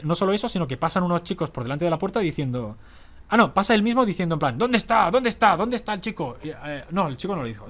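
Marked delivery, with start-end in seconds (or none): 4.6-6.4 higher-pitched mock frantic questions; recherche agitée imitée. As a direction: imitate someone anxiously hunting for a person. Imite l'homme qui le cherche.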